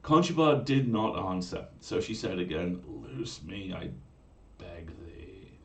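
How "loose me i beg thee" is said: sweet pleading. Acted. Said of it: "in a voice as sweet as the music".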